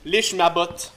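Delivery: low, cold tyrant voice; dark lord. Acted. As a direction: lord it over your kneeling servants. Rich tyrant lords over kneeling people. (voix de seigneur des ténèbres grave)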